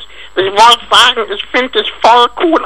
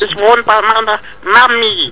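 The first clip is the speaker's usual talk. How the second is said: put-on kid voice. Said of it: "Warum redest du so, so komisch?".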